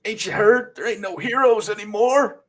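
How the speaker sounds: disillusioned comic character. Acted. Acts out comic dialogue.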